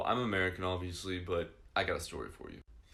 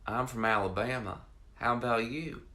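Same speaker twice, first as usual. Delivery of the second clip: imitated Alabama woman; 3 semitones higher, 3 dB louder than usual. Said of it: "and she said".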